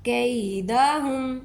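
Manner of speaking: कैदहुम drawn out slowly; recited slowly. Shown as a demonstration. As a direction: stretch कैदहुम deliberately. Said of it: "ये याए लीनिया है".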